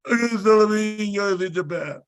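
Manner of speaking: high, rushed recital; pressured declaration. Retold or imitated. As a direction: rattle it off on command. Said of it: "you need to say it right now".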